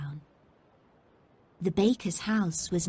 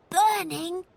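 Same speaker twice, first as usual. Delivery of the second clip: high rising alarmed question; boy alarmed at smell of fire; alarmed exclaim; 11 semitones higher, 3 dB louder than usual. A narrator's reading. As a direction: snap the word up in alarm. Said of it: "Robert exclaimed".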